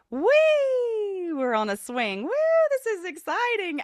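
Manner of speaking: very high, light, excited, swooping head voice. Describing the voice upstairs in our head, head voice. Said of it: "it's also our head voice".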